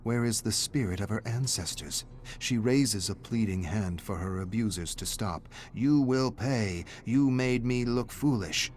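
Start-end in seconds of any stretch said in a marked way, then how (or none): 5.7-8.7 a spirit's slow, menacing vow; menacing threat. Acted. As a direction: growl it out slowly like a vengeful spirit. Angry spirit speaks to her.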